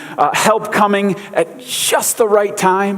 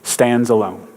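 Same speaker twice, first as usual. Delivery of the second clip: Gandalf's solemn pronouncement; 5 semitones lower, much slower than usual. Retold or imitated. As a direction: lightly imitate a wizard's measured declaration. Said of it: "and Gandalf says".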